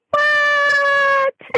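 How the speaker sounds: a high, stunned what; mock astonished cry; shocked. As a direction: gasp it out in disbelief. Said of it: "And I thought".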